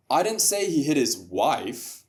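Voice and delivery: "wife" stressed, slow deliberate sentence; stress on one word. Shown as a demonstration. Demonstrating how meaning changes, stress on "wife". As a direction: lean on the last word, "wife". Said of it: "now stress different words in the sentence".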